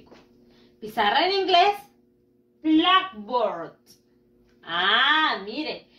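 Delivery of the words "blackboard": "blackboard" with the A of board unpronounced; silent A. Shown as a demonstration. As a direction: model "blackboard" clearly, dropping the A in board. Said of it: "tacho la A y no pronuncio la A". ("blackboard" sin pronunciar la A de board)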